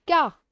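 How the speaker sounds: first syllable CA alone, high and loud; isolated syllable. Shown as a demonstration. Teacher starting camarade for pupils, isolated syllable. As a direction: punch CA out by itself. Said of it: "je commence".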